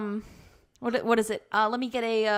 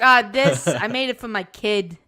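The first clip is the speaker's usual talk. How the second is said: put-on Jersey accent; 5 dB louder than usual. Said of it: "He has a Jersey accent".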